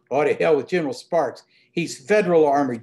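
a lightly voiced, quick dismissive toss-off; haughty reply. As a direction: brush the general aside with a touch of haughtiness. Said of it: "Dirk replied haughtily".

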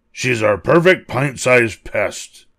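cheering. Acted. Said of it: "cheered Fangy".

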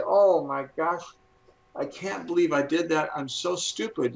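lightly acted dismay at yourself; mock self-reproach. Voicing negative self-talk after a mistake.

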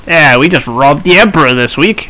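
lightly voiced cocky bandit, lilting accent; a hint of a boasting brigand. Brigand brags about robbing the Emperor, light bandit voice. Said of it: "shouldn't try and do a bandit voice".

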